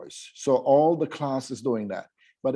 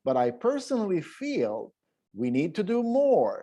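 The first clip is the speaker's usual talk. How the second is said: high-pitched, lilting; expressive model reading; 4 semitones higher than usual. Shown as a demonstration. Teacher models an opinion sentence with high pitch. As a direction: lift the pitch on each phrase. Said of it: "a few more".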